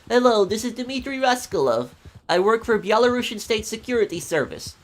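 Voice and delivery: high-pitched Russian agent voice; Russian accent. Shown as a demonstration. Streamer demos his scammer-trolling Dimitri, Russian accent. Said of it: "when I did the Dimitri's voice".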